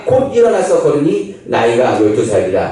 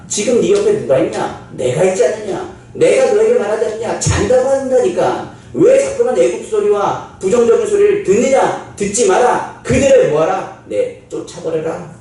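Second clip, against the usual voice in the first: high, shouted exhortation; forceful urging; 6 semitones higher than usual. Acted. Jesus urging Jairus to ignore the mourners, forceful. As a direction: preach it at full force.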